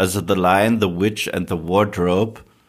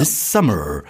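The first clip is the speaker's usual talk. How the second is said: American trailer voice. Shown as a demonstration. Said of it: "das ist die amerikanische".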